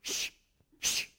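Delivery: soft hushing; shushing. Retold or imitated. Disciples silencing the blind men, soft shush. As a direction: hush them quietly. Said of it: "they were trying to do".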